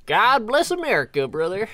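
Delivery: whispered, high God bless America; breathy stage whisper of a tough guy; whispered patriot. Pretend. Mock patriotic joke line.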